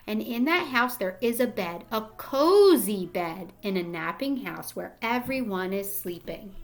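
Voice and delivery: put-on gentle storybook read-aloud to young kids; reading to children. Rereading the page aloud.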